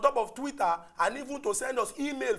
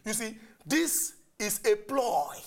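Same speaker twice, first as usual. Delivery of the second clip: slow, deliberate emphasis; speaking clearly; slower than usual. Real, not acted. Host making his point over interruptions, slow and clear. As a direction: spell it out slowly for the listeners. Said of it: "I wan talk am clearly".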